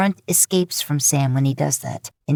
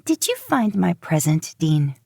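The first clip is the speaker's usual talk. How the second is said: bright, raised Rowena voice, sing-song; a chirpy, pitched-up witch greeting; 2 semitones higher than usual. Acted. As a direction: answer the phone like a cheerful witch. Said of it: "she answers chirpily".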